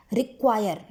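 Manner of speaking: रिक्वायर with the "क्वा" pressed; stress on Q. Shown as a demonstration. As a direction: lean hard on the Q sound in रिक्वायर. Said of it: "क्यू पे बहुत ज़्यादा". (रिक्वायर में क्यू की आवाज़ पर दबाव)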